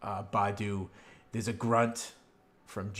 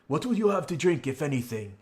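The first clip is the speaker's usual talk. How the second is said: raised, hearty host's voice; jovial innkeeper; 6 semitones higher, 6 dB louder than usual. Acted. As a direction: offer drinks as a cheerful innkeeper. Innkeeper addresses his customers.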